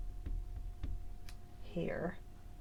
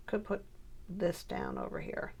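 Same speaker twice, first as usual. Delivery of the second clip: whispered to herself; 3 semitones lower, 10 dB quieter than usual. Real, not acted. Muttering while placing pieces.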